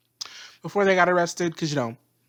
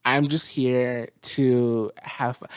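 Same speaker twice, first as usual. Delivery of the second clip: laid-back, laughing careless dude; careless surfer voice. Retold or imitated. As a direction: shrug it all off, laughing. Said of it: "Mercury is like".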